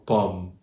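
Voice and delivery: POMME with an open O, as in "caught"; French "pomme", open vowel before M. Shown as a demonstration. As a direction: slowly demonstrate "pomme" with open O. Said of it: "the open O".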